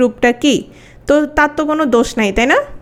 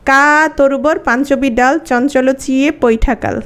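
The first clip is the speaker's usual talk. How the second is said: slow, measured recitation of Charyapada lines; reciting old verse. Shown as a demonstration. Teacher reciting the first Charyapada lines, slow and measured. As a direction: read the ancient verse slowly. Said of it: "যেমন আমি বললাম".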